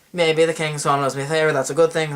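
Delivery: put-on English accent, quick. Edward the First weighing a favour from Scotland, put-on English accent. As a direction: say it briskly as an Englishman. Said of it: "he'd be talking in an English accent".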